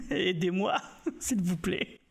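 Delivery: laughing through a plea for help; real laughter while pleading. Real, not acted. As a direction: giggle your way through asking for help.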